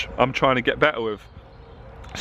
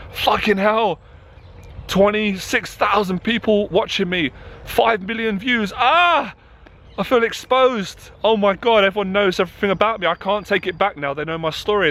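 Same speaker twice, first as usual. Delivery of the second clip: panicky inner voice; 5 semitones higher than usual. Retold or imitated. Coach voicing his own morning panic, imitated as panicky. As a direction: replay the morning fear, spiralling up. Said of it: "sometimes I'm scared as well".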